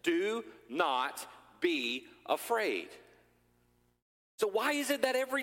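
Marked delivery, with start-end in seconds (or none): 0.0-2.9 drawn out slowly, gently; Jesus speaking to his people, slow and calm; slow reassurance. Acted. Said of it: "Jesus himself goes and says".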